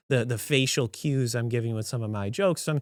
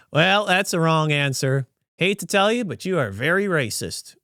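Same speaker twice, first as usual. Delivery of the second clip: sarcastic; 3 semitones higher than usual. Retold or imitated. Diner jokingly answers the server's response, sarcastic. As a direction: deliver a joking accusation, deadpan-style. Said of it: "I'm being sarcastic".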